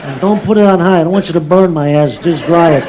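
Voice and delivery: lightly voiced deadpan wiseguy baby; tough-talking newborn. Newborn instructing father on diaper care, deadpan wiseguy. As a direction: give slow orders like a little boss. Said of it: "talking like this".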